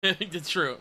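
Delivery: amused that's true, still laughing; laughing agreement. Real, not acted. Agreeing with the joke, laughing as it's said.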